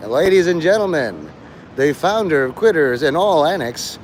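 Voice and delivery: lightly voiced ring announcer; a touch of mock fight-night introduction; Michael Buffer announcer. Announcing the founder of Quitters, mock ring announcer. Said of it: "I feel like, uh, Michael Buffer".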